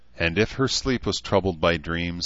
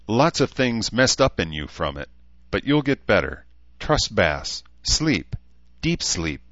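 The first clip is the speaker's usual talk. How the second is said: a hint of an elf soothing someone; reassure, then settle into a sleep command; lightly voiced reassuring elf; 4 semitones higher than usual. Elf tucking the human into bed, lightly voiced reassuring elf.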